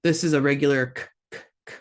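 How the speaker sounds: k said as a plain, hard English K; regular K. Shown as a demonstration. Teacher isolating the k sound for students. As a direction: click out a plain hard k, not the Q from the throat. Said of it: "this K is just like a regular K sound".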